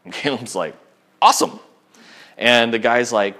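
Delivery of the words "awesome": bursts out high and loud, thrilled; a delighted cheer to the young man; excited awesome. Retold or imitated. Mentor cheering the group's first meeting, thrilled. Caleb reacts to good news.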